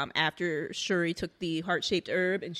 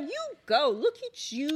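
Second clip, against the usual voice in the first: high cheer you go; 6 semitones higher than usual. Retold or imitated. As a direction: cheer her on like a fan. Cheering the queen on screen.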